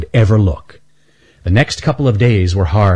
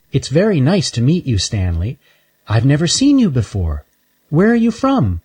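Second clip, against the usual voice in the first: put-on high, sweet little girl squirrel; little girl squirrel calling from behind a bench; 6 semitones higher than usual. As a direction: ask it like a curious little girl. Shelby friendly.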